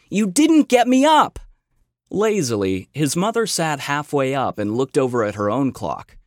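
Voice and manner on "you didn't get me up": sharp, high, loud complaint; barking. A narrator's reading. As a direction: bark it at her, much louder. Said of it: "he barked".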